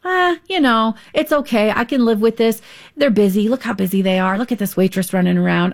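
lightly acted conflict-avoider making excuses; passive resignation. Passive restaurant diner excusing a busy waitress, mildly resigned. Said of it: "The passive communicator thinks".

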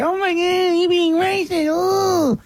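high, shrill mock-offended voice; mock offended critic. Host imitating critics calling him racist, high mock outrage. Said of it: "they're gonna say".

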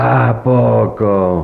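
muy lento y grave, incrédulo. Acted. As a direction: alarga la pregunta con incredulidad. Reacción al relato del tesoro. (incredulidad arrastrada)

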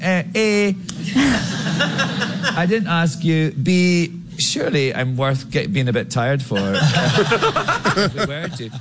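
breaking into laughs between words; laughing at the absurd memory; high giggly retort. Real, not acted. Laughing through retold reply.

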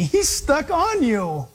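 "stuck on you" said slowly, pressing "on"; slow down and lean on "on" in "He's stuck on you"; stress on the turn. Shown as a demonstration. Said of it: "He's stuck on me".

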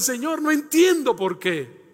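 slow, pleading lament. Acted. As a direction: voice a psalmist's complaint slowly. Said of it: "ellos se lamentan".

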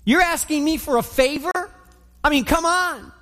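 a hint of sass, rising toward the end; lightly voiced woman, hand on hip; mild mock indignation; sassy retort. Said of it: "her hand on her hip and her head wagging".

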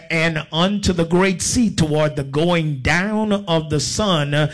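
measured, declaimed Bible reading; preacher reading scripture, drawing out the phrase endings. Real, not acted. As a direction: read the verse out to a congregation. Reads scripture to congregation.

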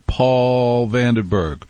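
slow. Shown as a demonstration. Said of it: "the great morning man of Albany".

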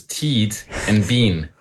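names in a mimicked Kiwi accent, Teed and Bean with long ee vowels; imitated Kiwi accent. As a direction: mimic a New Zealander saying your names. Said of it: "what our names sound like in a Kiwi accent".

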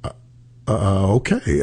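halting, stunned acceptance, retold. Politician answers the scolding, stunned and halting. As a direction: stammer a little, imitating someone taken aback. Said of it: "he said he was just stunned".

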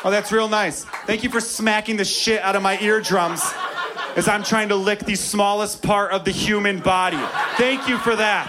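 sarcastic thanks. Retold or imitated. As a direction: thank her with heavy sarcasm. Sarcastic thanks to thigh-squeezing partner.

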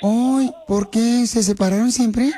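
drawn-out, nosy woman caller; lightly put-on female voice; Paula. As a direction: pose as a concerned Colombian lady. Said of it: "habla como salvadoreña".

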